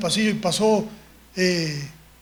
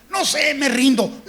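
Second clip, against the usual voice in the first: put-on slow, whiny kid surrender; a boy tired of guessing; mock tearful "I give up"; child giving up; 3 semitones higher than usual. Child gives up in story.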